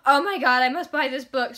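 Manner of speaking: bursts out loud with a sudden thrill; loud, giddy outburst; excited gasp. Retold or imitated. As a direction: react like you just found the book you've been waiting for. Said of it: "I was like".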